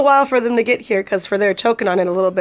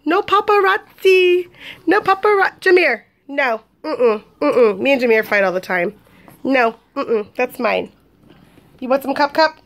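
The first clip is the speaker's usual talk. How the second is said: voicing the baby; 3 semitones higher than usual. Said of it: "He's like".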